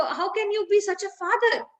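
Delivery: storyteller's mildly indignant outburst; angry reproach, acted. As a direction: act out a wife berating her husband. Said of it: "she's so angry".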